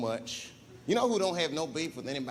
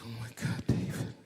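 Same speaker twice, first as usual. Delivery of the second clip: quiet crying voice; 4 semitones lower, 4 dB quieter than usual. Retold or imitated. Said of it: "she's crying".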